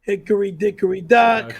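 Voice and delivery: Andy Dice Clay. Shown as a demonstration. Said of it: "do your Andy Dice Clay".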